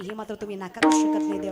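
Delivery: loud, breaking emotional outburst; fervent preaching peak; impassioned climax. Real, not acted. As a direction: cry it out to the crowd.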